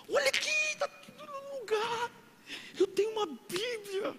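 high, joyful, near-tearful voice; ecstatic, tearful traveller; overjoyed reply. Retold or imitated. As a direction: sob out your happiness, voice way up. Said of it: "A aeromoça, "Tudo bem, senhor?".

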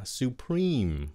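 "Supreme" with the stress on "preme"; second-syllable stress. Shown as a demonstration. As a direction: lean on the long ee of "Supreme". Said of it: "Mình nhấn cái âm thứ nhì nha".

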